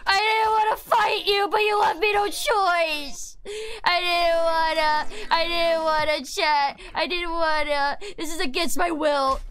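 slow, hammed-up tearful regret; mock remorse. Apologizing to a monster she must fight, hammed-up mock sobbing. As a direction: fake a dramatic lament.

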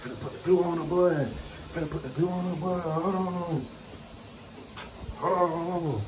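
high-pitched stalling. Real, not acted. Vlogger putting glue on, high-pitched stalling. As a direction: draw it up high, playfully stuck. Stuck fumbling with glue, sing-song repeats.

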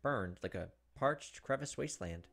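reading the novel's text with quiet dread; tense story narration. Acted. Streamer reading Higurashi narration to viewers, tense narration. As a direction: narrate it like a creeping horror story.

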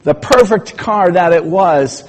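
mock despair over a wrecked car; high distraught protest. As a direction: insist the car is ruined forever, way up high. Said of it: "And he said".

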